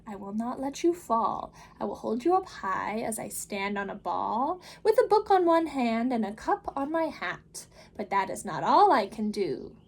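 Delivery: put-on the Cat in the Hat calming the children, big and upbeat. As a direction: reassure the kids with a grand flourish. Cat boasts balancing.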